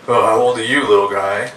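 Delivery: put-on loud, far-off-timbre drunk trying to be friendly; drunk bum. Drunk bum chatting up a stranger's little son on the train, falsely friendly. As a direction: imitate a drunk bum being overfriendly. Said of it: "in that drunk way that bums think they're being friendly".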